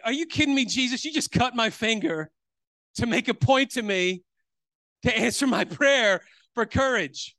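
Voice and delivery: high, exasperated disbelief; incredulous retort. Retold or imitated. Speaker answers Jesus after cutting his finger, incredulous. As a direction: throw it back at Jesus, half laughing in disbelief.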